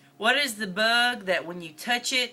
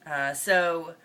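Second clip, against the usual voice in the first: Northern Mississippi accent. Real, not acted. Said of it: "try really hard for this whole video".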